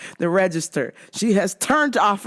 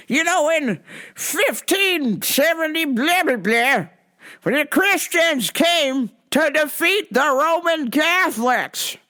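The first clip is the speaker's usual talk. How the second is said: higher, slow sermonizing stranger; mock zealot lecturing a cashier; preachy Rome guy; 6 semitones higher, slower than usual. Man rambles history lecture.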